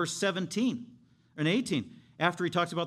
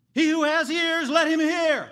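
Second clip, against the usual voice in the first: crying out at the top of the lungs, high and loud; screamed call; 11 semitones higher, 9 dB louder than usual. Shown as a demonstration. Preacher showing how Jesus called out to crowds, screaming. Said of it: "he would scream at the top of his lungs".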